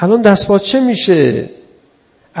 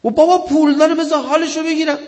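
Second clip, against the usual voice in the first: higher, mock-smug official voice; preacher imitating a spiteful official; 8 semitones higher, faster than usual. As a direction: mimic the petty official with scorn. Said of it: "به خود من یه مسئولی گفت".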